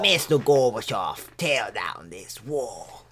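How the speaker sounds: presidential oratory that slows at the end; Ronald Reagan impression. Co-host retrying the famous speech, slowing oratory. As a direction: start firm, then draw out the command. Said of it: "doesn't sound like Ronald Reagan".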